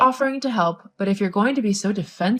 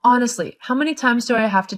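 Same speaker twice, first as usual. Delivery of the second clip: scolding; 3 semitones higher, 7 dB louder than usual. Acted. Mother-in-law scolds daughter-in-law.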